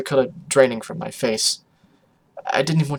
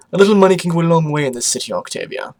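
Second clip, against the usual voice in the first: sly fast delivery; 4 semitones higher, 5 dB louder, faster than usual. Acted. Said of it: "with a glint in his eye".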